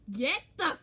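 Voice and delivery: high, loud mock growl cracking into laughter; growling threat. Playing Riley warning Colin off her cousin, mock growling. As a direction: growl and yell it, hammed-up. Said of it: "Riley growled at him. She'd be like".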